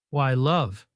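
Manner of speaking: "love" pointedly emphasised; stress on love. A narrator's reading. Needling her with the pet name, stressing "love". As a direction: lean on the last word, "love". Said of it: "emphasizing the last word".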